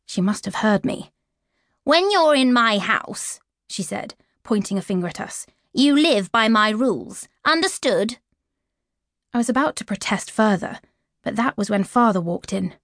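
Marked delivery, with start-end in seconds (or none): 1.8-8.2 a hint of a menacing stepmother; stern stepmother. Stepmother laying down rules.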